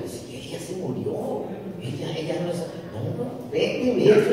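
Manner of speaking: high, laughing shooing-away; laughing refusal. Retold or imitated. Widow telling her dead husband to go away, high laughing refusal.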